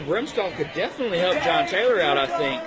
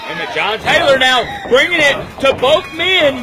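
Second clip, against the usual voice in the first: loud, much higher climax call; wrestling commentator; 8 semitones higher, 4 dB louder than usual. Real, not acted. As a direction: scream the finish as it happens. Commentator calling the finish sequence.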